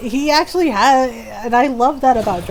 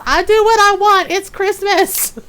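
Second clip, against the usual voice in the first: loud, high defiant shout; hammed-up defiance, stretching the ending; Automod; 10 semitones higher, 7 dB louder than usual. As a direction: belt it out like a bratty rule-breaker. Automod voiced as defiant character.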